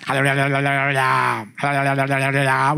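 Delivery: lightly voiced rapid chanted hallelujahs; mock the tongues-prompting chant; imitating the deaconess. Deaconess making the boy copy her mouth, mock chant. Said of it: "이러는 거야, 갑자기".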